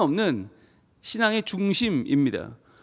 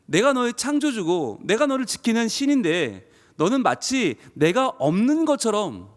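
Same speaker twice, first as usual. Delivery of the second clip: grieved longing. Acted. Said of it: "안타까움이 아닐까요".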